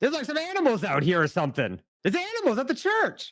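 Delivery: play-acted shrill holler, very high, swinging wildly. Voicing a startled man at a tavern door calling inside: yelling man. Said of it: "you hear him just yell".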